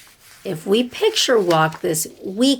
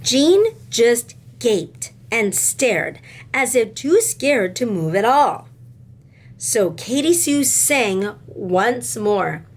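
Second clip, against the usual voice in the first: put-on expressive read-aloud to children; lively classroom storytime voice; storybook reading; 4 semitones higher than usual. A narrator's reading. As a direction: tell it like a picture book to kids. Reads a picture book aloud to class.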